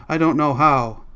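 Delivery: distraught, high outburst; screaming reply. A narrator's reading. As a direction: wail it out helplessly. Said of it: "began to scream aloud".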